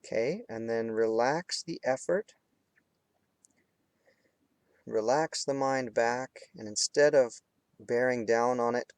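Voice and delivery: unhurried meditation guide with long pauses; guided meditation. Real, not acted. Teacher guiding students between hard focus and relaxing, guided meditation. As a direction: lead them through it phrase by phrase, leaving space. Leads candle flame meditation.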